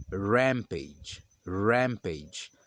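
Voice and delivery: rampage with the R heavy and dense; dense English R. Shown as a demonstration. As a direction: load the R in rampage. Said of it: "o R é pronunciado de forma carregada". (rampage com R carregado e denso)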